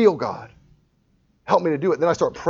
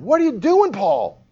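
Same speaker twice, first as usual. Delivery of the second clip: conscience screaming; 9 semitones higher, slower than usual. Retold or imitated. Conscience shouting at the speaker mid-mistake, high alarmed yell. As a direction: yell it like your own conscience catching you. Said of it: "my conscience is screaming".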